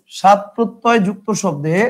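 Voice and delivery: spelling it out slowly for note-taking; slow and deliberate, word by word; slow dictation. Shown as a demonstration. Teacher dictating slowly so students can write it down. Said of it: "কি শব্দ ভাই?".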